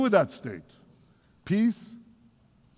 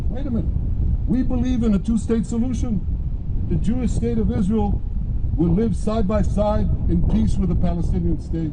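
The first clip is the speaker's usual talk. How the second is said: raised, hammed-up protest of Western leaders; mock leaders' protest; 3 semitones higher than usual. Mocking Western leaders who lecture him, raised pitch. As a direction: parody the leaders' indignant objection. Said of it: "they tell me".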